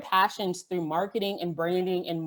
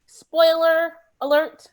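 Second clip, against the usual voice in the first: playful teasing; 2 semitones higher, 4 dB louder than usual. Acted. Teasing reveal in speaker bio.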